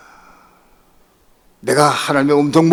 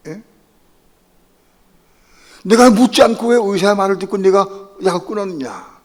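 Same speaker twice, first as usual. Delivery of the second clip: loud, higher voice of God scolding; God rebuking; 4 semitones higher, 5 dB louder than usual. Retold or imitated. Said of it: "하나님께 날 책망하셨어요". (하나님이 꾸짖는 큰 목소리)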